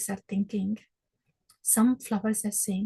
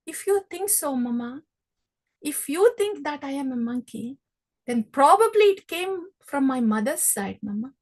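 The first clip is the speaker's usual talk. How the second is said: put-on cheeky child; 3 semitones higher, faster than usual. Krishna's cheeky comeback.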